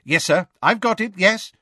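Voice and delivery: high, eager confirmation; joyful. A narrator's reading. Assistant assuring his minister it is written, joyfully. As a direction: confirm it with keen delight. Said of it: "scanning his notes joyfully".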